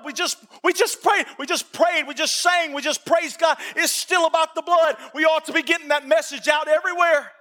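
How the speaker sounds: urgent, insistent sermon delivery; fervent preaching. Real, not acted. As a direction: press the congregation with repeated phrases. Preaches with rising fervour.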